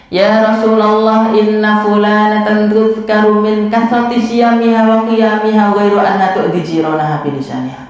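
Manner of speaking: measured Arabic recitation, slowed at the start; a hint of chant in the Arabic quote; hadith recitation.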